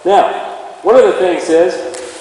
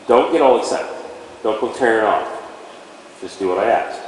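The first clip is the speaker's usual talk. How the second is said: calm to the horse; 7 semitones lower, 5 dB quieter than usual. Shown as a demonstration. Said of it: "we wanna say to our horse".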